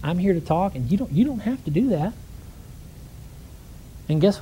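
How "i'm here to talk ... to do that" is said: gentle calm. Retold or imitated. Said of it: "for the third time".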